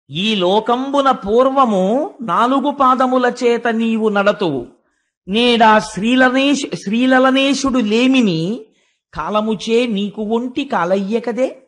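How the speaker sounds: slow, measured chanting of Telugu verse; verse recitation. Acted. Preacher recites the earth's verse to listeners, slow recitation. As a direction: recite it line by line, drawn out.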